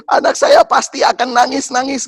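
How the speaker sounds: high, loud worried wail; dismayed outcry. Retold or imitated. Father dreading his child's tears, dismayed outcry. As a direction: lament it in rising dismay. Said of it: "Saya langsung".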